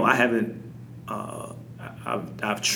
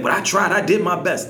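higher, louder mock whine of excuse; mock defensive excuse; 7 semitones higher, 6 dB louder than usual. Parent mimicking another parent's excuse, pleading. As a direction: plead your effort in a put-on voice.

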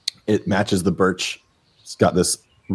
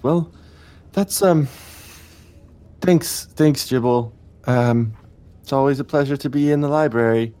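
friendly guide; 5 semitones higher than usual. Acted. GM voices Rennie chatting warmly.

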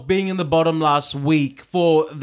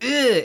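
short "ugh" of distaste, pitched up; imitated disgust; 8 semitones higher than usual. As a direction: recoil from a bad sip. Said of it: "she's like".

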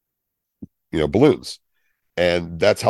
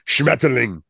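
harsh German; 5 semitones higher than usual. Shown as a demonstration. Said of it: "Even butterfly".

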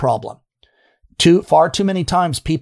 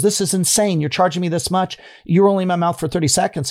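higher, quicker retold protest; imitating an irritated patient, pitched up and quick; mock indignant complaint; 4 semitones higher than usual. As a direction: throw the bill down and complain. Patient confronts dentist over bill.

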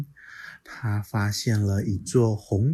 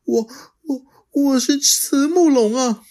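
put-on high, childlike dinosaur voice, puzzled; little dinosaur voice; 6 dB louder than usual. Little Xiaoliang asking the T-rex, high and puzzled. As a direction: play the little dino, wide-eyed and unsure.

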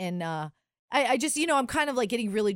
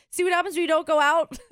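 teasing; 8 semitones higher, 6 dB louder than usual. Real, not acted. Teasing friend.

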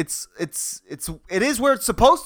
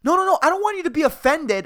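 mock flustered, quick and higher; freaked out; 4 semitones higher, faster than usual. Customer hurries to reassure the offended barista, freaked out. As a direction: imitate a hurried, panicky backpedal. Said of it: "freaked out".

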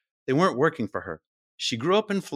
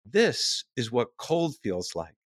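calm; 2 semitones lower, slower than usual. Retold or imitated. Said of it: "you tell them what is happening".

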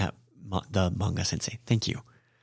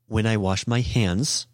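slow example; slower than usual. Shown as a demonstration. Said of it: "if I wanna say".

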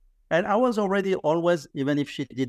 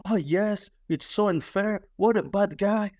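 mock sympathy; 4 semitones higher than usual. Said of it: "I thought my grandmother would took my side".

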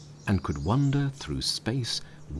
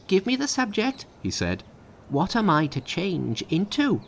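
high, keen Monkey; raring to show his powers; high excited monkey voice; eager Monkey; 12 semitones higher, 3 dB louder than usual. A narrator's reading.

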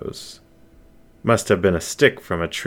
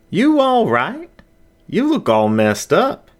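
lightly voiced higher wolf, slow start; the wolf behind the counter checks on Zach, slightly higher; wolf's concerned ask; 13 semitones higher, 3 dB louder than usual. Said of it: "the wolf behind the counter asked".

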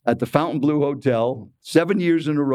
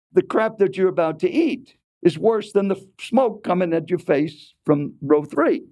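higher-pitched, pointed put-down; retold blunt tone; 5 semitones higher than usual. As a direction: imitate a stranger's rude remark. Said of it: "said it in that tone".

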